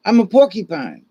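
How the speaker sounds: stammering porcupine. Acted. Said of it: "And he goes".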